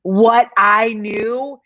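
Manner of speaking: slow, knowing threat; understated smug warning; smug retold retort. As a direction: hold the secret over them. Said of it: "and then you're like".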